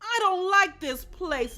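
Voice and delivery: high, loud protest; shouting. Acted. Dog complains to fellow prisoners, shouting. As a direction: shout your dislike. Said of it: "Dottie shouted".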